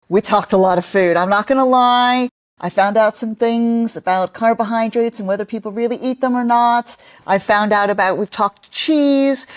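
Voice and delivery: an upbeat promo read that slows down in the middle; podcast promo read. Pretend. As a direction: sell the episode like a cheerful host. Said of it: "Do the promo".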